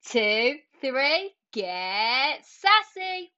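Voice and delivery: sassy, upbeat scripted podcast opener; podcast intro. Acted. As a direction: read it like a punchy show intro.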